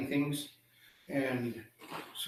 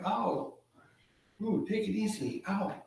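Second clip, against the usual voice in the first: high, wincing character voice; acted tender-footed complaint; pained protest; 6 semitones higher, 3 dB quieter than usual. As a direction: wince and plead through small yelps. Seagull has spines fumbled in feet.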